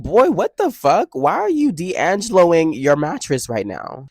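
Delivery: high-pitched incredulous outburst; mock outrage. Student retelling reaction to roommate on the mattress, high incredulous outburst. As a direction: ask it in high, appalled disbelief.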